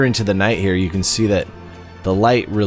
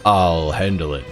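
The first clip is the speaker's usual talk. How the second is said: barbarian. Retold or imitated. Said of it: "this barbarian voice is so perfect".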